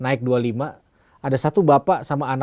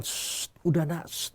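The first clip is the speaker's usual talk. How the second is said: embarrassed shushing; 5 semitones higher, 8 dB quieter than usual. Retold or imitated. Embarrassed father shushing his child in the lift, softly. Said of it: "bapaknya malu banget".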